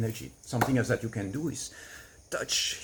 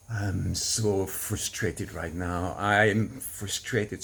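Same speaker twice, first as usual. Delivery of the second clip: slow, drawn-out frustrated moan; voicing frustration; 3 semitones lower, much slower than usual. Shown as a demonstration. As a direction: stretch each word out, letting the frustration leak. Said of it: "if I'm frustrated about something, I go like".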